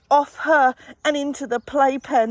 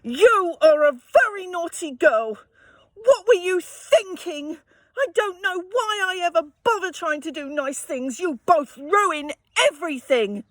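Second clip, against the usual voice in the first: angry scolding; 5 semitones higher than usual. Acted. Mum telling Ellie off, tearful angry scolding. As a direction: scold her, cross and close to crying. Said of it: "and shouted".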